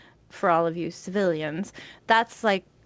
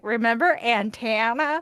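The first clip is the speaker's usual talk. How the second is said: teasing Southern twang on antenna; imitated Kentucky accent; 3 semitones higher than usual. Wife quoting her husband holding it against her, Kentucky accent. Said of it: "He's like, ... the way he said antenna".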